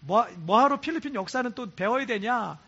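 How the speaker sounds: mildly grumbling student; retold complaining. Students grumbling about classes at school, retold complaining. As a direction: imitate kids griping about school. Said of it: "불평하는 애들이 있어요".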